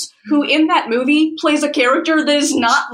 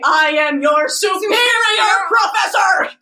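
mock commanding shout; 5 semitones higher, slower than usual. Reader twists the captain's quote, a hammed-up slow shout. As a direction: boom it out like a pompous commander.

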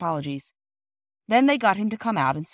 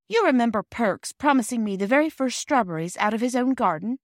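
higher, lightly voiced eager child; lightly voiced excited Phyllis; 5 semitones higher, 3 dB louder than usual. Girl sharing her idea with the others, lightly eager.

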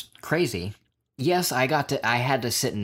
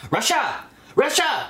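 loud, high-pitched mock Russian chant; hammed-up drunken yell, badly faked accent; terrible Russian-accented yell; 4 dB louder than usual. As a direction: bellow it in a bad Russian accent. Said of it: "that was a terrible Russian accent".

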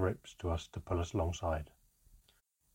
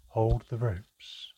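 slow, firm command; authoritative order; 2 semitones higher, much slower than usual. Acted. Manca ordering the crew, slow and firm. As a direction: draw out the order steadily. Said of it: "Manca's authoritative voice came once more".

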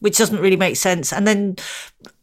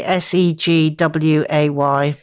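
slow spelling; 3 semitones lower, slower than usual. Shown as a demonstration. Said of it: "I'm really bad at spelling".

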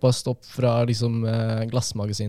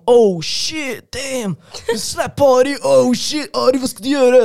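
high, loud hyped-up crowd of mates; excited friends; 13 semitones higher, 6 dB louder, slower than usual. Retold or imitated. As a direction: imitate the boys egging him on, voice way up. Excited friends cheering on a fight. (oppspilte kompiser som roper i lys stemme)

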